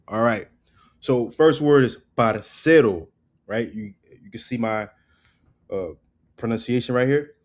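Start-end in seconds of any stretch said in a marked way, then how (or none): 2.2-3.1 "parcero" with CE punched and stretched; stress on the CE. Shown as a demonstration. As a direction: say parcero slowly, leaning hard on CE. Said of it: "The emphasis is on the C".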